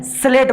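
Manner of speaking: स्लेट opened directly on "s", "slet"; no "i" before स्लेट; plain "s" onset. Shown as a demonstration. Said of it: "सा बोल रहा है आधा सा।".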